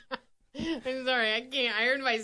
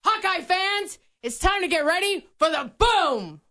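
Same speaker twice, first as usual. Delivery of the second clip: announcer voice; 4 semitones higher than usual. Pretend. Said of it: "I didn't love it".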